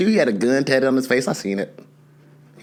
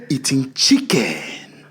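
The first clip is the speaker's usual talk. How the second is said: gruff dad voice; 2 semitones lower, slower than usual. Retold or imitated. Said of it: "he busted through the door".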